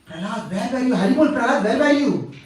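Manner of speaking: acted outpouring of a reunited father; joyful father's greeting. Hiranyakashipu welcomes his returning son Prahlad, joyful.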